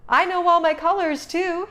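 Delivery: high, loud proud announcement; a shy turtle perking up with pride; proud excitement. A narrator's reading. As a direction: show off, suddenly brightening. Franklin proudly brightening.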